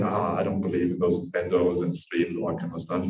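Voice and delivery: low-pitched mimicked doubt; dismissive. Friend quotes the other's earlier doubt back, dismissive. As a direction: imitate a doubter, dropping low.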